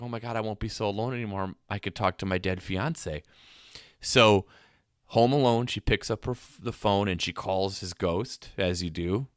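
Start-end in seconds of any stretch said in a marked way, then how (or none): 0.0-3.2 excited. Retold or imitated. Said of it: "starts to get excited".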